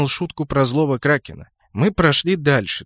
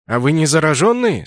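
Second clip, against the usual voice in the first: louder, strict little guard asking; stern question; 3 semitones higher, 5 dB louder than usual. Acted. Young elf guard questioning travellers, stern. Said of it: "строго спросил эльфёнок".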